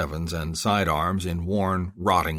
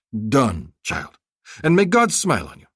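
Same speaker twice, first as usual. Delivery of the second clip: high, effusive haggling vendor; a flattering bazaar seller pitching; eager merchant; 5 semitones higher, 4 dB louder than usual. Acted. Vendor agreeing.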